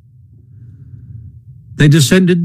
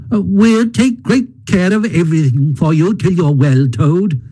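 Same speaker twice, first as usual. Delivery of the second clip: higher, lightly voiced Mole; coaxing Mole; 6 semitones higher than usual. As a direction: coax a friend along, soothingly.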